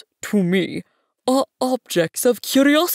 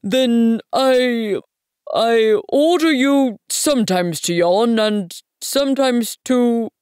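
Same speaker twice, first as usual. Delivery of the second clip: loud, higher regal fluster; sputtering, vexed king; 5 semitones higher, 7 dB louder, slower than usual. A narrator's reading. King revising his order to the prince, sputtering and vexed. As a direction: grope for an order, vexed and halting. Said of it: "he sputtered a little and seemed vexed".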